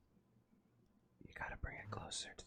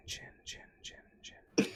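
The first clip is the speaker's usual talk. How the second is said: whispered echo fading out; 6 dB louder than usual. Pretend. ASMR echo effect.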